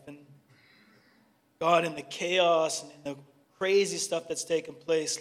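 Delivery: heartfelt congregational prayer. Real, not acted. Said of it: "Let's pray for a moment".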